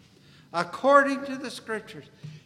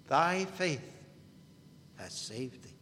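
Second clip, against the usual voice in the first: soft echo; 6 semitones lower, 8 dB quieter than usual. Acted. Lord's words repeated more softly.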